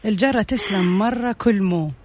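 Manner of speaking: reversed proverb, slow and deliberate; backwards speech. Shown as a demonstration. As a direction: read the scrambled saying carefully. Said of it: "جبت لك جملة حلوة بسيطة".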